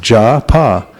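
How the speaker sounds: Ja, pa as two separate syllables, laughing; syllables split with a laugh. Shown as a demonstration. Teacher splitting the word japa for students, laughing. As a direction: chop japa into ja and pa. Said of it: "ja, 'cause you use your jaw".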